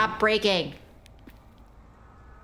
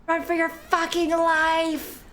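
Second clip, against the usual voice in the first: urgent cry; 8 semitones higher, slower than usual. Real, not acted. Urging self to flee.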